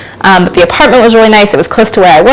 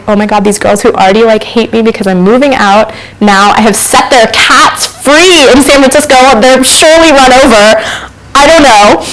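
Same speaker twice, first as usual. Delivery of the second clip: mounting mock panic, climbing higher in pitch; retold panic; 4 semitones higher than usual. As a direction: retell your spiralling worry, building to a helpless wail. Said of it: "I have this moment of panic".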